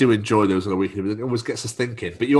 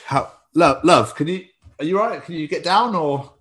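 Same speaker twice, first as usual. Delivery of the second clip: anxious, pitched-up concern; worried high voice; 7 semitones higher, 4 dB louder than usual. Pretend. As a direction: fret over the stuck cow, voice rising. Man worried for stuck cow.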